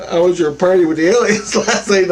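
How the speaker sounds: "aliens" pushed out with emphasis; stress on aliens. Retold or imitated. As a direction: lean teasingly on the word "aliens". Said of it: "I emphasized aliens".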